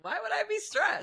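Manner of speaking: high put-on sarcastic voice. With dripping sarcasm.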